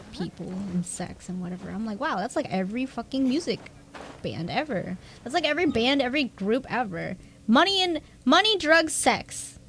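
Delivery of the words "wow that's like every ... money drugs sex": exasperated rant. Retold or imitated. Mocking band lyrics, exasperated rant.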